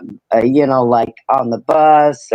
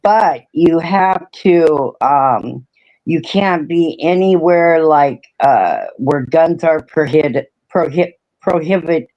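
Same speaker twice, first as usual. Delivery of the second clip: speaking without dentures; gummy, slurred words; toothless. Real, not acted. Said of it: "I don't have my teeth in. I can't talk right".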